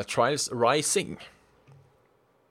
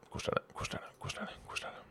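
fast fading repetition; 14 dB quieter, much faster than usual. Shown as a demonstration. Testing the tongue twister live, repeating it ever softer. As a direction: repeat it faster and softer each time, down to a whisper. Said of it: "Si det fort mange ganger etter hverandre".

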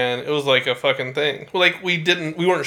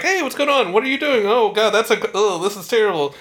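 voicing the dog; 5 semitones higher than usual. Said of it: "she came up to us like".

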